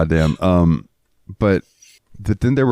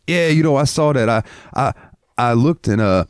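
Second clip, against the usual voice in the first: much higher, dazed excuse voice; dopey drunk excuse; 4 semitones higher than usual. Retold or imitated. The drunk driver excusing his swerving, high dazed voice. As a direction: play the sleepy drunk explaining. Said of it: "driver's excuse".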